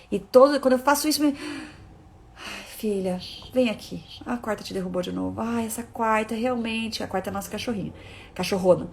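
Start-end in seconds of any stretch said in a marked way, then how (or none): 2.4-7.0 put-on softer, tender mother calling her child over; gentle comforting. Mother comforting her daughter after the dog knocked her over, soft and tender. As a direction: soothe her like a gentle mom.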